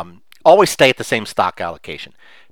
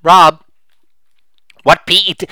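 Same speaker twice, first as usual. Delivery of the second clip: listener's question; 5 semitones higher, 6 dB louder than usual. Retold or imitated. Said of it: "one of your favorite questions".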